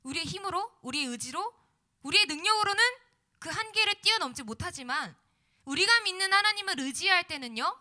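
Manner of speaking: loud, rising preacher's exhortation; preaching. Acted. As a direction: preach it out to the congregation. Sermon climax, full-force preaching.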